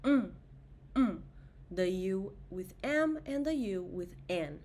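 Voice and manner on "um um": um as nasal u. Shown as a demonstration. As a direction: hum um through the nose. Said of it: "The last nasal vowel sound is um".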